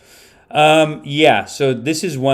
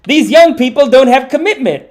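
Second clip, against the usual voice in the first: put-on lecturing older man; 10 semitones higher, 6 dB louder than usual. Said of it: "He's like".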